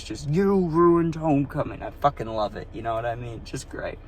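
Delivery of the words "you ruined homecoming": mock intense accusation. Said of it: "so real and so intense".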